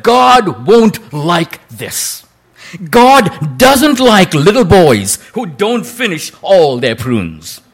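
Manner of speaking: lightly voiced mother, slow and insistent; slow stern mother. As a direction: spell out the rule to a stubborn child. Mother insists boy finish prunes.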